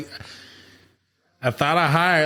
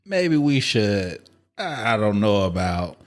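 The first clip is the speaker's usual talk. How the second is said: hesitant, slow; 2 semitones higher, slower than usual. Retold or imitated. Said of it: "now I'm like".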